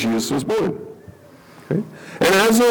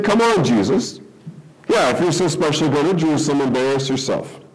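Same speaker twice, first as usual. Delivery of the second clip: mocking taunt; faster than usual. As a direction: goad him like a scornful sibling. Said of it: "It's mocking".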